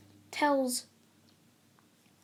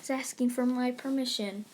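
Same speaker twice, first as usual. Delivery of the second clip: mock grandeur. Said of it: "he's like".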